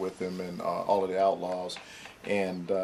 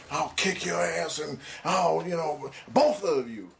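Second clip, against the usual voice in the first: higher, half-acted drunk threat; imitating an angry drunk yell; 7 semitones higher than usual. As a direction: echo a rapper's drunken threat without shouting it. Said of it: "he started screaming and cussing".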